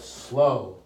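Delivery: "slow" said low and drawn out; slow inflection. Shown as a demonstration. Trainer showing preachers' inflections, slow delivery. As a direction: stretch the word "slow" in a low tone. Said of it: "They put the inflections in the right place".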